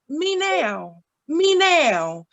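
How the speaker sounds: lightly voiced cat meowing "me now"; a hint of a demanding cat. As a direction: mimic the cat's whiny meow in words. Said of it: "he says".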